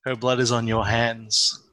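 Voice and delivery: low, eerie haunting voice; menacing ghostly telepathic voice; creepy voice. Acted. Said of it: "in a creepy voice".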